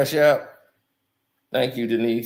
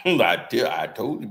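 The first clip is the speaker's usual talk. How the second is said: Shannon Sharpe impression; 2 semitones lower than usual. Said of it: "Shannon Sharpe even talking about".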